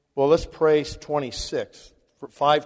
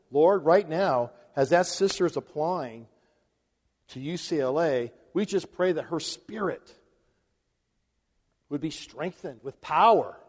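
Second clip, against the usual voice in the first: demo Bible prayer. Shown as a demonstration. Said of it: "So you gotta pray the Bible".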